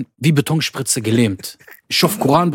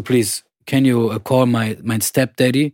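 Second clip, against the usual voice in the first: pleading broken English; slower than usual. Retold or imitated. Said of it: "ich so".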